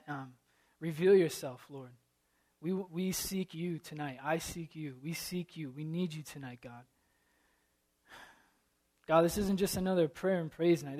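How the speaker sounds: earnest, pleading prayer voice; heartfelt congregational prayer. Acted. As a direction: pray it over the room, rising to urgent pleas. Preacher leads opening prayer.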